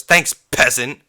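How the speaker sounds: punched mock thanks, tossing out the insult; dismissive customer jibe. Customer insults drive-thru worker before driving off, dismissive. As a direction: imitate the customer's curt thanks. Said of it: "that's exactly how he said it".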